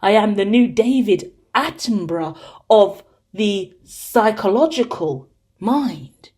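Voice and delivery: a hint of a nature-documentary narrator; lightly voiced grand narration, slowing down; playful mock-documentary narrator; David Attenborough voice. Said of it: "This is my man v machine voice".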